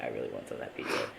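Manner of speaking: low, quiet dazed mumble; groggy craving voice. Retold or imitated. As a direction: moan it like you're half asleep. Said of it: "and I was like".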